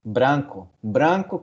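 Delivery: "Branco" with a clear BR cluster where Spanish has BL; Portuguese word example. Shown as a demonstration. Teacher contrasting Portuguese with Spanish, clearly pronounced BR. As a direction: sound out the R in "Branco". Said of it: "grupos vocálicos que hay en portugués".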